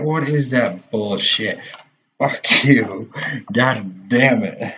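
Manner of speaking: loud furious swearing at the screen; angry outburst. Real, not acted. Gamer raging after falling off the edge, loud angry swearing. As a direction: yell it at the game, dragging out god damn it.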